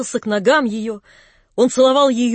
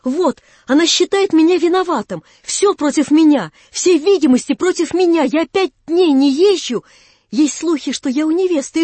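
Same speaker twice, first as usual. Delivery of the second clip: put-on louder and higher, eager young man protesting; young lover protesting to Natasha, eager and raised; excited pleading youth; 6 semitones higher, 5 dB louder than usual. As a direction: plead innocence in a rush of feeling.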